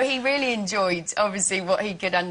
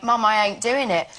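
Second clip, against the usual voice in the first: broad Cockney, a bit louder; Cockney accent; 4 dB louder than usual. Retold or imitated. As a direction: drop into her EastEnders Cockney. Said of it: "came home and went".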